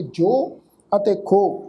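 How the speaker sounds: ਜੋ and ਖੋ ending on a clean long o; ਸਿਹਾਰੀ silent. Shown as a demonstration. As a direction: pronounce ਜੋ and ਖੋ with no hi after the vowel. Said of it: "ਇਹਨਾਂ ਸ਼ਬਦਾਂ ਦਾ ਉਚਾਰਨ ਕਰਾਂਗੇ". ('ਜੋ' ਅਤੇ 'ਖੋ', ਹਾਹੇ ਦੀ ਸਿਹਾਰੀ ਬੋਲੇ ਬਿਨਾਂ)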